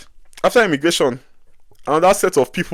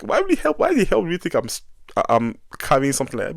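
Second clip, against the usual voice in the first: high, indignant why the hell, cracking up on the hell; exasperated outburst; 4 semitones higher, faster than usual. Retold or imitated. To the airport searcher, high indignant disbelief.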